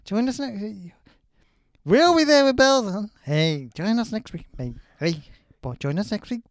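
put-on loud, high Scouse accent. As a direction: Liverpool Scouse voice shouting the sign-off. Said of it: "schedule with Scouse accent".

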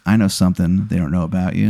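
low, quick, hushed taunt; menacing. Acted. Rival gets that close to you, menacing. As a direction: drop the voice for a close-up threat. Rival repeats threat nose to nose.

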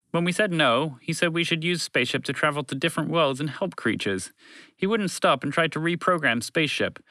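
a touch of an aggrieved alien; lightly voiced alien creature, complaining.

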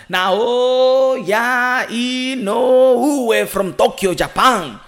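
drawn-out, high boxing announcer call; hammed-up ring introduction of a fighter; ring announcer intro. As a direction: stretch the name like a ring announcer.

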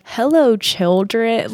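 mock a creepy call to children; creepy greeting. Ghost hunter greets dead children, retold creepy sing-out. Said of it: "he was so creepy".

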